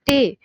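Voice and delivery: "टे" said with force; stressed syllable. Shown as a demonstration. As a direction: put full stress on "टे". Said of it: "ज़्यादा force के साथ हम इसको बोल रहे हैं". ("टे" पर ज़ोर देकर)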